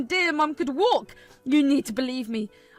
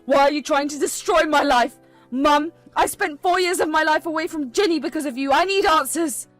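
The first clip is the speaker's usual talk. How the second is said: furious demand; 8 dB louder than usual. Acted. Fuming son shouting at his mother and Megan, furious.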